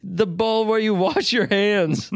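high prissy mock-posh lecture; snooty etiquette voice. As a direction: play a fussy etiquette snob.

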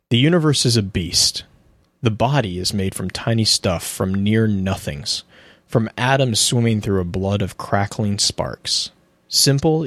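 measured dramatic reading with pauses between phrases; lore narration. Acted. Co-host reads a Ghost Fragment to listeners, measured narration. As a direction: read it out deliberately, letting each image land.

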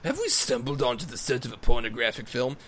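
lightly mocking posh question; a hint of a hammy British gent wondering aloud; imitating Depp as Mordecai, asking. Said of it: "he says".

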